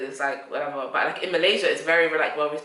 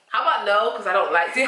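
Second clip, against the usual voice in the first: louder, higher mock put-down; sassy retort; 3 semitones higher, 3 dB louder than usual. Retelling her answer to Caribbean guys, a sassy refusal. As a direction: brush him off with a cheeky no.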